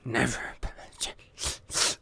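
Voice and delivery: slow breathy whisper of "Never apologize". Pretend.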